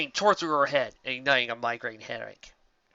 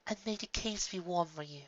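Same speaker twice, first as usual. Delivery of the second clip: voice breaking; 5 semitones higher, 8 dB quieter than usual. A narrator's reading. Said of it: "her voice breaking".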